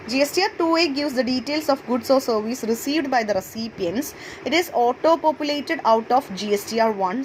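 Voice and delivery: measured English read-out of lesson notes; formal textbook read-aloud. Acted. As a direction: read the definition out slowly, phrase by phrase. Reads out English definition from notes.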